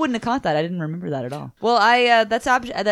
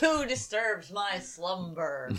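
grinding stone statue; 10 dB quieter, much slower than usual. Pretend. Mock waking voice of monster.

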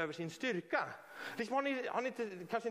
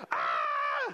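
loud war cry with the voice cracking; cracking teenage scream; 6 dB louder than usual. Shown as a demonstration. Preacher shows the congregation a war cry, cracking scream. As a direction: scream till the throat splits. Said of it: "skriker så att man låter som en pubertal tonåring".

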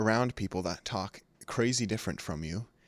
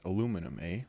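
put-on Canadian accent; faster than usual. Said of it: "as one of my buddies from Canada says".

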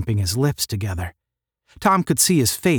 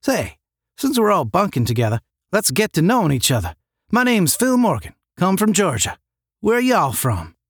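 put-on lilting Georgia accent, pitched up; Southern accent; 7 semitones higher than usual. A narrator's reading. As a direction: introduce yourself as a sociable Southerner. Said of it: "inquired the Southerner".

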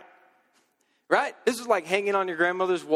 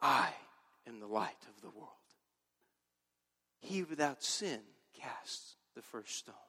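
soft, much lower, mocking whispered Jesus; 9 semitones lower, 14 dB quieter than usual. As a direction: breathe it out like a wispy painting Jesus. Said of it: "this Jesus always whispers".

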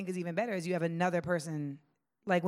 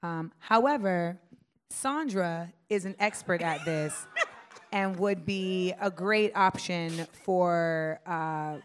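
professional tone. Shown as a demonstration. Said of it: "in the professional environment".

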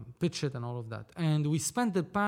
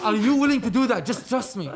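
laughing loudly through a higher plea; 6 semitones higher, 9 dB louder than usual. Retold or imitated. Urging partner Scott to agree, laughing loudly. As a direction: laugh while urging him to trust you.

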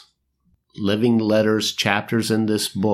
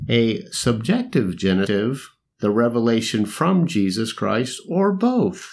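scholarly voice; 2 semitones higher than usual. Pretend. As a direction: read it like a stuffy professor. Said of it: "you gotta do it in a scholarly voice".

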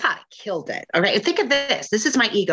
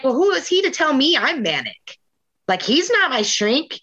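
retold indignation; 5 semitones higher than usual. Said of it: "I was like".

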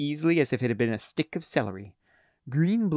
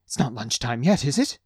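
startled cook. A narrator's reading. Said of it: "he gasped breathlessly".

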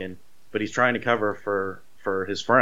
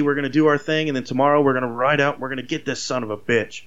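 higher, rowdy rally-the-posse sheriff; hyping the troops; 6 semitones higher than usual. Retold or imitated. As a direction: pitch it up like a sheriff firing up his men. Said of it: "And he's hyping the troops".

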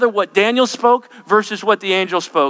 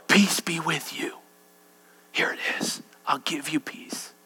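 whispered peace; 2 semitones lower, 9 dB quieter than usual. Acted. Angel gives peace to the tense soul, whispered. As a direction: breathe peace into their ear.

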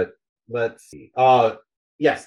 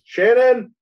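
high, loud holler of a name; acted yell for an assistant; calling out; 11 semitones higher, 5 dB louder than usual. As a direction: shout for someone in another room. Spider calls out to Shannon on waking.

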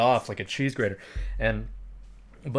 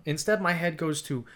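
normal talking voice

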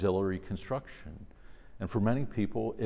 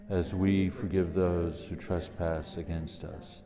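prayer; 3 dB louder than usual. Real, not acted. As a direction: lead the prayer aloud. Leads the Our Father.

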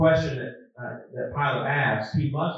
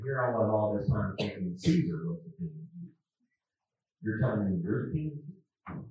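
lightly sarcastic, rising into mock disbelief; a touch of wise-guy doubt, kept low-key; smart aleck; 3 semitones lower, 4 dB quieter than usual. Preacher voicing Pilate doubting Jesus, mildly smart-aleck. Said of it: "smart aleck Pontius Pilate saying".

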